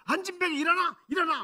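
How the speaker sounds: high, loud preacher's command; shouted command. Retold or imitated. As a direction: shout it out like a faith healer proclaiming. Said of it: "막 소리 지르면서".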